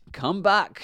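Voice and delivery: loud, high call after someone; farmer's shout. A narrator's reading. Farmer to the fleeing witch, shouting. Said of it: "shouted the farmer".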